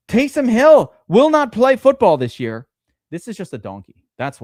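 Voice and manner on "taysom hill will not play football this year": loud, high, exasperated rant; exasperated outburst. Real, not acted. Streamer ranting at a rival's bad pick, loud and high. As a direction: blast it out in disbelief.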